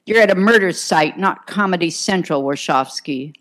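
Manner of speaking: lieutenant scolding the detective at the crime scene, snapping; snapped rebuke. Acted. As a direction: cut her joke down hard. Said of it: "McGivney snapped".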